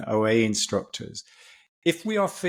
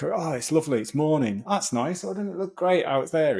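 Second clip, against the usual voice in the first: higher, lilting mock delight at a lovely morning; lightly voiced happy wake-up feeling; delighted morning sigh; 5 semitones higher than usual. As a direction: voice a contented, pleased sigh of relief. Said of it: "A physiological sigh is just like".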